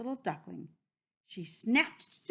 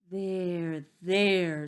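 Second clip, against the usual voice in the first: soothing wolf; 6 dB louder than usual. A narrator's reading. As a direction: soothe a crying little one. Wolf comforts the crying duckling.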